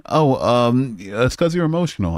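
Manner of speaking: mocking whiny imitation; mock a smug commenter; lightly mocking voice; mocking chatter. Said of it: "but he's like".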